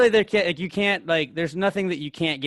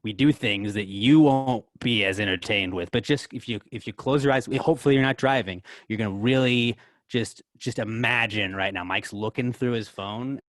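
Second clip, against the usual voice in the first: slow, deliberate play-by-play narration; mock radio commentary; 3 semitones lower than usual. Host narrating a phone search for listeners, mock dramatic commentary. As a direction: draw out the suspense like a commentator.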